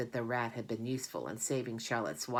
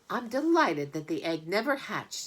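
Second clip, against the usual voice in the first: gabbling goose; 5 semitones higher, 4 dB louder than usual. Acted. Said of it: "she gabbled".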